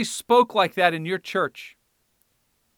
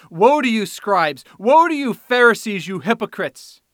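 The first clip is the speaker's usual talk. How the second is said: shouted woes; 3 semitones higher, 6 dB louder than usual. Acted. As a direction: thunder down on the hypocrites. Preacher voicing Jesus' woes.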